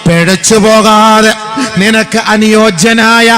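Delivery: high, loud and slow, in full sermon chant; fervent preaching. Acted. Preacher exhorting parents at a wedding gathering, loud and high. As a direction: preach it out to the hall, slow and soaring.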